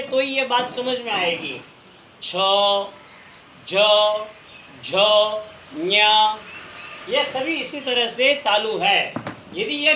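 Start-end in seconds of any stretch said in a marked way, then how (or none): 2.2-6.0 छ, झ, झ, ञ each said alone from the palate with pauses; isolated palatal sounds. Shown as a demonstration. Teacher listing palatal letters for students to try, isolated sounds. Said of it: "बोल के खुद प्रयोग करके".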